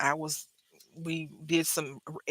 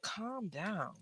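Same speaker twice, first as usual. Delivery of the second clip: much softer, retold hushing; calming; 4 semitones higher, 14 dB quieter than usual. Teller telling the frantic roommate to settle, retold calming. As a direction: drop the volume to settle him down.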